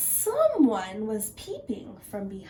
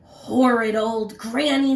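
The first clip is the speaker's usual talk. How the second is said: growled complaint; 7 dB louder than usual. Acted. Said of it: "the wolf growled".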